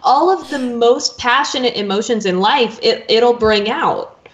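echoey room sound; big hall echo. Real, not acted. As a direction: voice bouncing around a hall. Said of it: "you sound really echoey".

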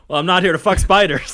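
loud laughing Aussie reply; broad Australian accent. Pretend. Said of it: "And I answer".

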